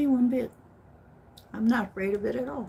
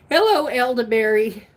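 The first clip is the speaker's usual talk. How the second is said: excited greeting; 2 semitones higher, 5 dB louder than usual. Real, not acted. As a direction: greet them with a squeal.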